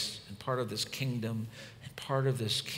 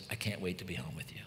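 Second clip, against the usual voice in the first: tender; 6 semitones lower, 9 dB quieter, faster than usual. Retold or imitated. Voices spouse's tender favorite text.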